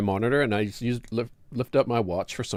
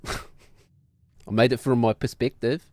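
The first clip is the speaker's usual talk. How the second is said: laughing; much slower than usual. Real, not acted. Laughing while defending joke.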